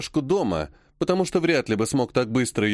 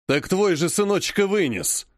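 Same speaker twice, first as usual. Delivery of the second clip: disgusted jab; 5 semitones higher than usual. Acted. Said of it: "брезгливо бросил дед".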